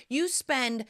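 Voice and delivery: drawn-out mock horror at the price; incredulous. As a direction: stretch out the shocking sum. Exaggerated outrage at grocery bill.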